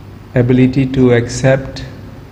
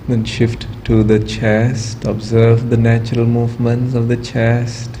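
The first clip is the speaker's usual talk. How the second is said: calm, measured voice leading a meditation, with long pauses; guided relaxation; 3 dB quieter than usual. Real, not acted. Yoga teacher talks students through relaxing the body, calm guided meditation. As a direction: guide them gently into stillness, easing off at phrase ends.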